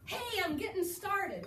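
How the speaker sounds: bright hello to the reader; friendly greeting. Shown as a demonstration. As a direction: say it like greeting someone. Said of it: "And it's like saying this".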